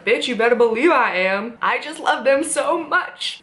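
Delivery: a lightly voiced cheeky Mulder; sassy mock Mulder. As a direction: brag with sass. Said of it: "he's like".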